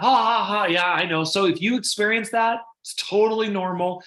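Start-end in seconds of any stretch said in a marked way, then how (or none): 0.0-1.2 mock laugh. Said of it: "everybody will usually laugh".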